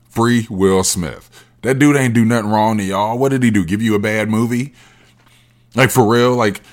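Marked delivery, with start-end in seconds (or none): 0.1-1.3 each word drawn out like a chant; slow emphatic slogan. Shown as a demonstration. Comic on stage, repeating his slogan, slow and deliberate. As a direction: spell the slogan out slowly.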